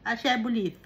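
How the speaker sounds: Bisaya-style "Shebolit", vowels swapped; Bisaya accent. Shown as a demonstration. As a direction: demonstrate a Visayan way of saying "Shebolit". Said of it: "pag Bisaya ka".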